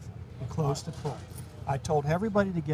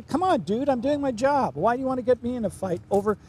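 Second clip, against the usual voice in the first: higher and louder, pleading to back off; raised retold protest; 7 semitones higher, 5 dB louder than usual. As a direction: push it up, exasperated. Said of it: "I'm kinda".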